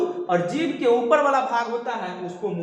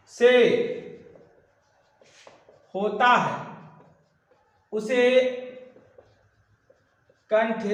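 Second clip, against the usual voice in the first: जिस वर्ण का उच्चारण कंठ से होता है said word by word with long pauses; slow dictation; slower than usual. Shown as a demonstration. Teacher dictating the definition slowly to students. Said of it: "जिसका उच्चारण कंठ से होता है उसे कंठ वर्ण कहते हैं".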